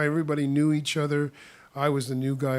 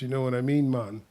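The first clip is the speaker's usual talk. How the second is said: Jamaican accent. Shown as a demonstration. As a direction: lightly fake Jamaican. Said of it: "my Jamaican accent is not the greatest".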